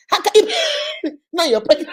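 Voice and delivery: high words broken by laughter; giggling at the absurdity; laughing disbelief. Real, not acted. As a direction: laugh through the question.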